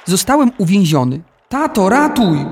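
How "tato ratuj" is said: high, loud cry for help; shout for help. A narrator's reading. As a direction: call out to dad in panic. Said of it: "krzyknąłem". (krzyk o pomoc)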